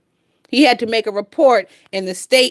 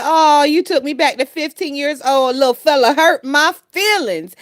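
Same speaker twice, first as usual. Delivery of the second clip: quoting a viewer; 5 semitones higher than usual. Retold or imitated. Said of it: "Miss Cruiser said".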